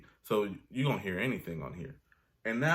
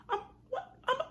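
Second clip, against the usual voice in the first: stunned disbelief. Retold or imitated.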